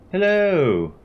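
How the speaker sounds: bright high call up to the deck. Acted. Lady calling up to the commander from below. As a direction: call out loud and high to someone above.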